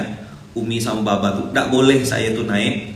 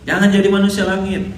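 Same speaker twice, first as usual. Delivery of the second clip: hint of a wise elder lecturing; quoted advice; 7 semitones higher, 3 dB louder than usual. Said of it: "Itu kalimat-kalimatnya".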